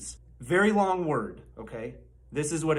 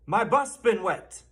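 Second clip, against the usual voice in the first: BUS hit higher, "my BUS been wet"; stress on BUS; 4 semitones higher than usual. Shown as a demonstration. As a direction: model it for a class, leaning on BUS. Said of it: "stress on the wrong syllable".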